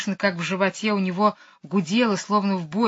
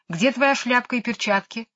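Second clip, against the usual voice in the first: stern; 5 semitones higher than usual. Acted. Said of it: "тем же тоном".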